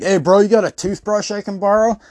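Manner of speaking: mock bro begging a favor; mock dude asking. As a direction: ask it like a clueless guy at the fair. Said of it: "be like".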